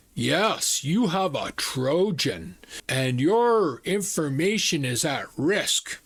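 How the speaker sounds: slow, put-on Indian accent; drawn-out scam caller with Indian accent; imitated Indian accent. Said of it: "It was an Indian accent".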